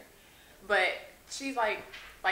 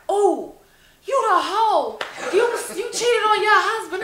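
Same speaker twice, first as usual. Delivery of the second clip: louder, higher mock accusation; accusing stranger; 11 semitones higher, 9 dB louder than usual. Lady at PetSmart accusing the actress, loud mock accusation. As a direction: call her out in public. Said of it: "this lady was like".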